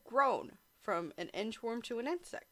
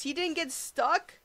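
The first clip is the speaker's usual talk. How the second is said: mock disbelief; 6 semitones higher than usual. Real, not acted. Mock astonishment at the text.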